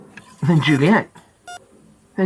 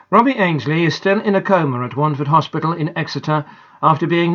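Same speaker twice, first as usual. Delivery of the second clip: measured radio news read; calm newsreader voice; news report; 3 semitones lower than usual. Acted. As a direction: read it like a local bulletin. News bulletin read aloud.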